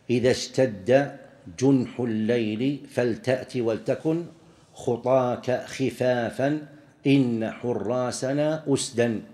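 slow, measured verse with long drawn vowels; poetry recitation. Shown as a demonstration. Teacher reciting a poet's line as proof, slow measured recitation. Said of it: "ومنه قول الشاعر".

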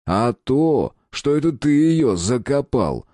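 slow, pressing accusation; with pressure. A narrator's reading. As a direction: lean hard on every word. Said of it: "с нажимом произнёс я". (с нажимом, медленно)

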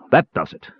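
mildly snarled line; a touch of anger, held in check. A narrator's reading. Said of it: "he snarled".

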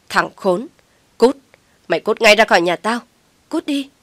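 loud, rising shouts of get out; a mother chasing the man out, shrieking; furious mother. A narrator's reading. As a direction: scream him out of the house. Mother throws Mạnh out.

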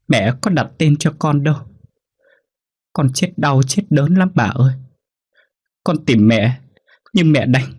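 put-on high, tearful little child's voice, begging; a lost dead child crying for help at night; pleading ghost child. Ghost child pleads with her grandmother, high and tearful.

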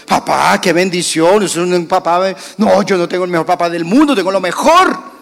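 put-on loud, fast, delighted kid; gushing child. Son thanking dad for the iPad, overjoyed and loud. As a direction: gush over a surprise gift.

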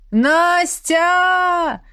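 loud call from the street below. A narrator's reading. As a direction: shout up to the window. Ex calling from the street. (громкий зов с улицы)

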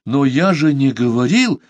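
ordinary delivery, nothing marked

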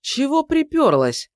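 high, loud, slow snarl; snapping back. Acted. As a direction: snap at the intruder. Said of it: "огрызнулся Акулич".

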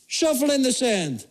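hint of a matter-of-fact local; lightly voiced lifeguard. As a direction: hand out useless advice slowly. Lifeguard's retold advice.

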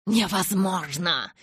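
contemptuous. Acted. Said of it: "презрительно бросил Кай".

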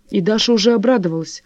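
ordinary delivery, nothing marked

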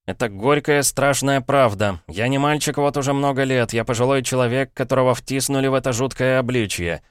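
put-on a boy begging his uncle to hear him out; desperate boy Paul. Paul pleads with his brother-in-law, urgent boyish voice.

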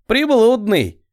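high, gleeful jeer; gleeful grin. A narrator's reading. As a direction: grin through it with glee. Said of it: "Радостно осклабился". (радостно, с ухмылкой)

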